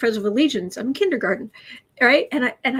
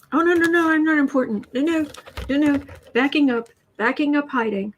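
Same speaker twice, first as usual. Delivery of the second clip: hammed-up cowardly protest, pitched up; mocking a scared pundit; 5 semitones higher than usual. Mocking Hannity hiding from committee.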